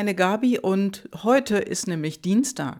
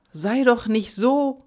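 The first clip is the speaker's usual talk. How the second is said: raised reproach; 6 semitones higher, 5 dB louder than usual. Acted. Example of scolding phrase.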